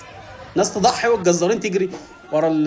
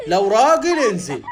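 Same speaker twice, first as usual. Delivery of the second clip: slow, stretched challenge; taunting dare; 2 semitones higher, slower than usual. Acted. Animal daring the butcher to come down, slow taunt. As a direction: draw the dare out mockingly.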